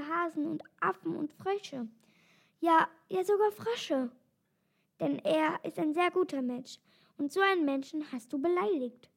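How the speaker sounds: lightly voiced lioness, reproachful; a touch of indignant lioness; dismayed lioness. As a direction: scold your mate in mild dismay.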